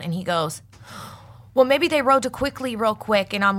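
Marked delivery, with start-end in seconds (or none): 1.5-3.3 high-pitched scared kid impression; imitating terrified boy. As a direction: offer a nervous guess in a boy's voice. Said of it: "visibly fucking terrified of me".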